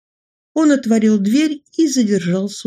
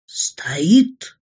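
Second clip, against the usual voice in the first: hushed whisper at the punchline; spooky whisper. Acted. Tale climax.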